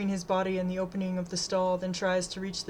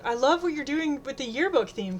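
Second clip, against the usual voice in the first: higher, lilting friendly call; cheery higher-pitched shout-out; 6 semitones higher, 4 dB louder than usual. A narrator's reading. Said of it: "waves and calls to her friend".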